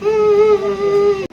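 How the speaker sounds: whimper. Acted. Child pleads with drunk father.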